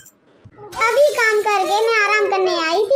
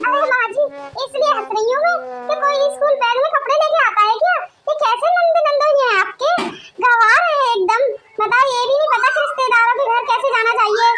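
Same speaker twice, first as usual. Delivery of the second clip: fast, higher-pitched ridicule; scornful amusement; 4 semitones higher, faster than usual. Acted. Daughter-in-law explaining her laughter to mother-in-law, scornful amusement. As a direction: rattle it off in amused disbelief.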